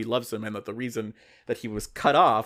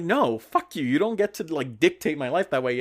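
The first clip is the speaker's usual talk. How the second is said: higher, louder indignant snap; offended outburst; 5 semitones higher, 3 dB louder than usual. Retold or imitated. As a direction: fire it back, deeply insulted. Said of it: "Mike is so offended".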